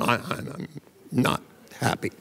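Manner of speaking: imitating a depressed client, haltingly; hesitant, halting words of a slow talker; slow depressive. Depressed client answering her therapist's question, slow and halting. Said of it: "She spoke so slowly".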